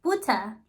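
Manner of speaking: Butter said the German way with a p-like b and no r. Retold or imitated. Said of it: "say it like a German person would".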